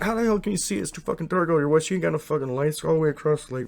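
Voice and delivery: mock him, exasperated and swearing; scornful disbelief. Friend scoffing at Wes across the dark lake, high and scornful.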